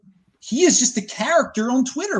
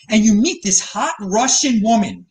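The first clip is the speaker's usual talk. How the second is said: Russian given a light extra push; stress on Russian. Real, not acted. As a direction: lean a little on the word Russian. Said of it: "I'm stressing the word Russian there".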